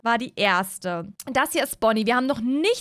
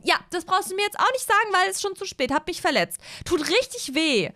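put-on higher, whiny injured young woman; Mara's voice; 7 semitones higher than usual. Mara complaining to Moritz about her sprained ankle, whiny.

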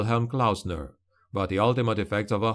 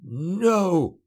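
snapped refusal; 8 semitones higher than usual. Acted. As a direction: snap it out, suddenly strong. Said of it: "the old patriarch snapped".

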